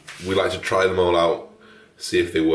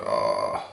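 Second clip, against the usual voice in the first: low, drawn-out "ah"; anxious sigh; 8 semitones lower, 3 dB quieter than usual. Retold or imitated. Vlogger acting out the nerves of clicking buy, anxious sigh. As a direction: let out a low mock sigh. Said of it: "get anxiety when you".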